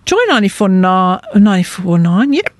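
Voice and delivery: talking through hiccups; hiccuping between words. Real, not acted. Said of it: "Oh, I've got the hiccups".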